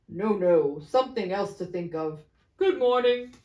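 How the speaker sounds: loud sudden remark; change the subject bluntly; brisk businessman. Acted. Second businessman remarking on cold, loud.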